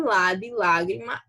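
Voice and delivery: lá stretched and pressed in "lá de lágrima"; stressed syllable demo. Shown as a demonstration. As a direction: lean on the lá of lágrima. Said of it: "fortes no momento em que são pronunciadas".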